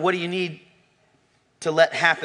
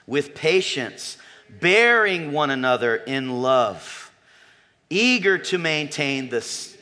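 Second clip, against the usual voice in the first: slow, measured reading of the text; scripture reading. Acted. Pastor leading the church in reading Ephesians, solemn. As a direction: read it solemnly with the congregation. Reads scripture aloud with congregation.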